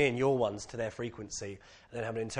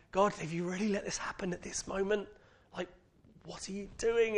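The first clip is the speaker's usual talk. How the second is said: exasperated plea; 7 semitones higher, 6 dB quieter than usual. Retold or imitated. Complaining to God about timing.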